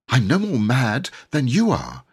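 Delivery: put-on indignant boy snapping back; angry. Boy denies madness to the knight, angrily. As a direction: protest hotly at the knight. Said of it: "said Robert angrily".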